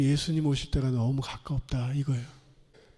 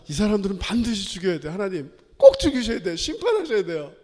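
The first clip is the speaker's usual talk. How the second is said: 요나 흉내; 3 semitones higher, 4 dB louder than usual. Retold or imitated. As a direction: plead hard for judgment, like an indignant prophet. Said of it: "요나가". (다그치듯 높아지는 목소리로)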